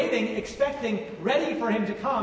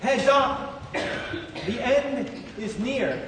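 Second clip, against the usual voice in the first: shouted warning; 2 semitones higher, much slower than usual. Acted. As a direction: call out a warning, stretching the last words. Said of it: "practically shouts at us".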